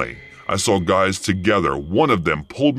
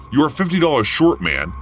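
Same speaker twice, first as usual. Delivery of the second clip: shouted after him; 8 semitones higher than usual. Retold or imitated. Cashier calls after a customer leaving without paying, raised voice. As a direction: yell it after a man leaving the door. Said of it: "I shouted".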